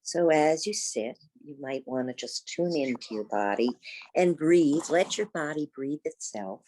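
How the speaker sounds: unhurried yoga teacher's guidance, long pauses between thoughts; guided meditation. Real, not acted. Teacher guides seated students into the breath, guided meditation. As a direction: guide them gently inward, leaving space after each phrase.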